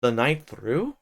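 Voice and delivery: a master echoing the words in surprise, rising at the end; Hindley echoing the servant, surprised; surprised repeat. Acted. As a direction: repeat it back, taken aback. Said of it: "he repeated".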